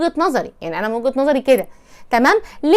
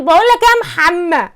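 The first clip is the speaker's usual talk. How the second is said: loud, raised call across the house; calling out to brother; 4 semitones higher, 4 dB louder than usual. Retold or imitated. Wife mimics calling her husband like a brother, loud call. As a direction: yell for Mohamed like a sister in the hallway. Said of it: "وانتي في البيت بتقول".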